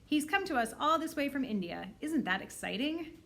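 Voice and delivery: eager primary teacher; teacher excitement. Acted. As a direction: sell the excitement to the class. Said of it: "Missus Beam says".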